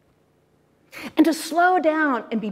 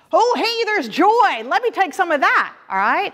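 higher, bright discovery of joy; delighted surprise; 3 semitones higher than usual. Pretend. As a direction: greet joy like an old friend. Greeting joy among emotions.

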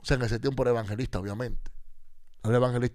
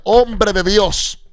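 high, loud, very slow call; drawn-out call; 9 semitones higher, 15 dB louder, much slower than usual. Retold or imitated. Housekeeper calls the hiding preacher, loud, high and slow. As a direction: stretch the call out long and loud. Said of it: "me decía".

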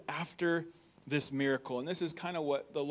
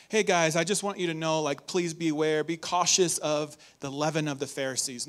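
casual warning. Retold or imitated. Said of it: "This wasn't a casual".

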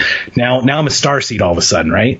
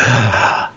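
imitated gasp. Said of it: "gasps, like".

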